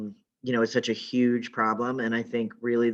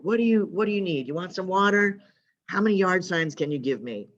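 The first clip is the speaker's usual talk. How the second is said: higher and fast, eager to help; eager friend; 7 semitones higher than usual. Retold or imitated. Friend rushing out to help Meg canvass, higher fast eager offers. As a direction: rush the offers out, bright and keen.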